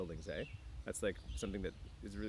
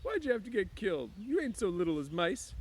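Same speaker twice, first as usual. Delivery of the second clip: much higher, loud accusing cry; high, loud Lenny rage; angry; 10 semitones higher, 5 dB louder than usual. A narrator's reading. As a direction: blame the puppy furiously. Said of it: "Suddenly, his anger rose".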